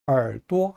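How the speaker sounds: 얼도 with a weak, unstressed 도; neutral-tone ending. Shown as a demonstration. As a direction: let 도 fall light in neutral tone after 얼 in 얼도. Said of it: "또 자는 약하게 경성으로 발음합니다". (얼도의 도를 약하게 경성으로)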